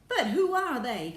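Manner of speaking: high, loud baffled question; cried out. A narrator's reading. Astronaut asking Houston about the strangers, crying out. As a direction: cry out the question. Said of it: "cried Shanks".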